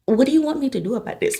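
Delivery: mock-exasperated, hurried questioning; retold confusion. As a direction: throw it out fast, at a loss. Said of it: "I was just so confused".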